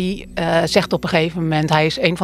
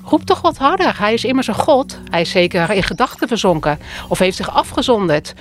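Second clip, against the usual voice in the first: mocking; 3 semitones higher than usual. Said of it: "riep Elia hun spottend toe". (Elia spot met de profeten van Baal, hoog en spottend)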